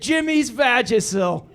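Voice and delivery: slow, laughing punchline; laughing reveal. Real, not acted. Comic reading the label to the crowd, laughing slowly. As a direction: drag out the label through laughter.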